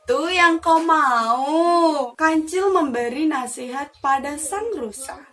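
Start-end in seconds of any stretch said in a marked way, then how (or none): 0.1-2.1 loud drawn-out oh, slow reply; knowing surprise. Acted. Mouse deer realising what the deer wants, slow.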